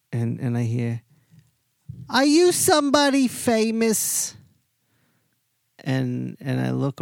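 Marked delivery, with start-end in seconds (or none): 2.1-4.4 high, louder mock woman's voice asking; curious bar lady. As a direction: put on a nosy lady at the bar, pitched way up. Lady at bar asks storyteller.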